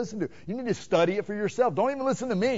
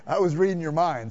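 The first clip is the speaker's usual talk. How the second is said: laughing; 4 dB louder than usual. Real, not acted. Joke about congregation's thoughts.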